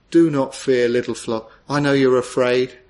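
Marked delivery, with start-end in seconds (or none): 0.1-1.5 tender. Shown as a demonstration. Preacher rereads the verse tenderly to his congregation. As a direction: say it like a shepherd calming the sheep. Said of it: "How tenderly the Lord speaks there".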